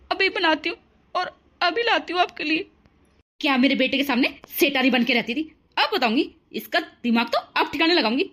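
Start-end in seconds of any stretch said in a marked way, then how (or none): 3.4-8.3 taunting, louder mother-in-law voice; mother-in-law taunting the bride once her son is gone; harsh mother-in-law. Acted. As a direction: sneer and boss her around.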